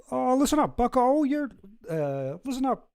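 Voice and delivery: high-pitched Kermit-like scolding voice; Jordan Peterson. Retold or imitated. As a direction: put on a high, strangled professor voice. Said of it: "I think I got a good Jordan Peterson impression".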